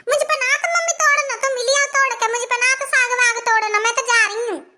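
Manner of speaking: put-on little girl. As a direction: sound like a small girl begging her mummy. Little daughter again.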